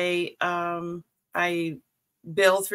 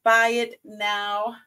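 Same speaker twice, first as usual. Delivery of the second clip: slow careful restart; much slower than usual. Shown as a demonstration. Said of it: "Words are hard".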